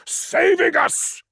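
high, slow clipped comeback; sharp retort. A narrator's reading. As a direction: throw the answer back at him. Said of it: "retorted Menkora".

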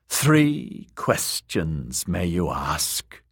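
slow, ominous crone voice; old crone. Acted. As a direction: intone it like an ancient witch. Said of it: "the crone said".

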